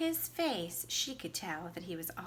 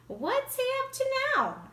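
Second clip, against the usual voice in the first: much higher, louder, playful dad voice; amused father; 7 dB louder than usual. A narrator's reading. Dad walking into the kitchen asking about his son, high and amused. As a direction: toss it off as a curious, amused dad.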